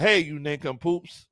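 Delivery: slow, lightly voiced old-time gangster; 1920s gangster. Owner calling his players nincompoops, a slow hint of a gangster. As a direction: drag it out like a mild movie mobster. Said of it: "you sound like a nineteen twenties gangster".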